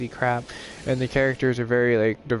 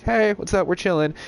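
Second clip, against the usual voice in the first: higher, laid-back mock party voice; chill votes voicing; 8 semitones higher than usual. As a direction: play the votes as relaxed buddies. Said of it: "They're like".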